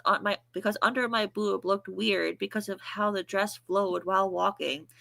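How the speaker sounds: flat deadpan reading voice; monotone voice. Shown as a demonstration. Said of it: "my monotone voice".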